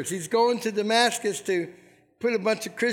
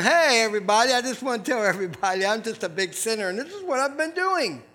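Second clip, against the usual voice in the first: bragging sinner; faster than usual. Retold or imitated. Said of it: "coming here and going".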